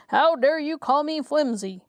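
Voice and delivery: a hammed-up furious retort; enraged. A narrator's reading. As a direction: demand it in storybook rage. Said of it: "cried Jack in a rage".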